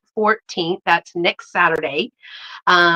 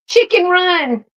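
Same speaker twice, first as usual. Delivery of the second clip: delighted; 9 semitones higher than usual. Real, not acted. Delighted at the journal gift.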